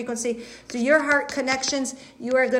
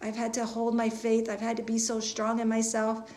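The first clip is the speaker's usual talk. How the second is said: relieved prayer; 5 dB quieter than usual. Pretend. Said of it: "That kind of feeling".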